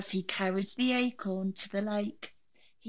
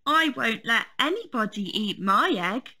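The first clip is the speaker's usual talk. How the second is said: fierce little bear; 5 dB louder than usual. Acted. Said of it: "with his fiercest stare".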